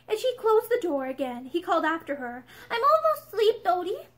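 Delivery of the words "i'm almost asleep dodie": high, lightly voiced drowsy child; sleepy little boy. A narrator's reading. Boy calling after his mother, sleepy child voice. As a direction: call out like a boy half asleep.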